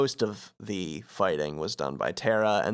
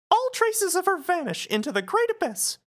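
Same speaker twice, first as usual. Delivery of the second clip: solemn line in mouse falsetto; Mickey. Acted. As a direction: deliver doom in a squeaky cartoon voice. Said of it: "Mickey replies".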